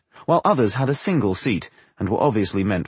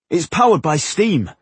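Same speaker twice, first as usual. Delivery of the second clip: higher-pitched, impressed tone; admiring explanation; 7 semitones higher, 4 dB louder than usual. A narrator's reading. Scholar admires the ancient engineers' machine, admiring explanation. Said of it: "explained Tungdill, full of admiration".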